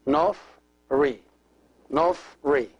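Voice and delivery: Nofri in two separated beats, Nof then Ri; joined syllables. Shown as a demonstration. Teacher joins two syllables for learners, Nofri sounded out. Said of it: "Together will be Nofri".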